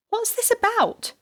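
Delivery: high, slow, worried question; pressing for an answer. A narrator's reading. Wife asking police again, worried. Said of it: "she asked again".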